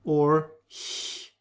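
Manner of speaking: breathy ich sound, hissed at the palate; soft h-like ch. Shown as a demonstration. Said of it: "the ch sound".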